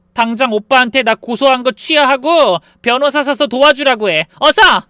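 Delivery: loud, high shrieking quarrel; hair-pulling fight, both screaming. A narrator's reading. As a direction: yell through the pain and fury. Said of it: "고통을 느끼며 소리쳤죠".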